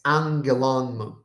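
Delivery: angelon mu run as one word, two accents; Greek enclitic reading. Shown as a demonstration. Teacher showing students how this is read, accented at both ends. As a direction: read "angelon" with a second accent on the last syllable. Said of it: "we read this as".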